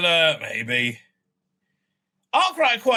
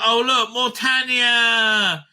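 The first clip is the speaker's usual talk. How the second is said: slow sarcasm; 4 semitones higher, 4 dB louder, much slower than usual. Real, not acted. Sarcastic at a release.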